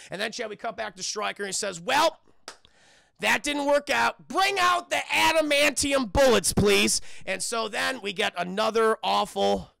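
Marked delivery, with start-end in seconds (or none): 1.8-7.0 high, loud, slow hammed-up scheming voice; mock villain. Stryker calling for adamantium bullets, hammed-up villain. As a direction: camp up the evil general.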